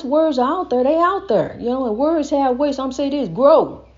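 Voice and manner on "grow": a loud single-word call of "grow."; shouted out. Shown as a demonstration. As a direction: shout "grow." out to the whole world. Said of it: "I just shouted that out to the world".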